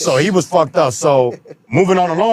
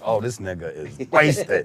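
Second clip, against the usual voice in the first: amused rapper; 6 semitones lower, 6 dB quieter than usual. Retold or imitated. The rapper's amused look at him.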